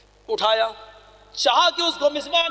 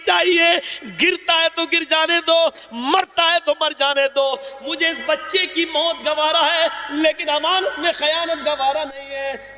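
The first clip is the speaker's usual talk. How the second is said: preaching at full force, raised and stern; impassioned sermon voice; 3 semitones higher than usual. Acted. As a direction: thunder it from the pulpit, voicing the caliph's refusal. Umar refuses milk, preaching fervor.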